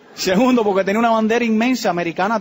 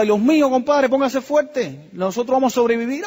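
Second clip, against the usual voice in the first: urgent encouragement; 5 semitones higher than usual. Retold or imitated. Urging crying friend to be strong.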